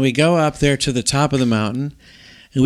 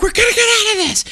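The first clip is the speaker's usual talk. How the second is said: retold yelling; faster than usual. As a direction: yell reassurance to the kids in the storm. Yelling to kids in blizzard.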